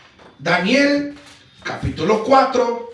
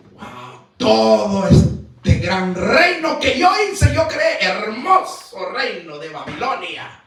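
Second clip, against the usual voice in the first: Nabucodonosor; slower than usual. Acted. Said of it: "el rey Nabucodonosor".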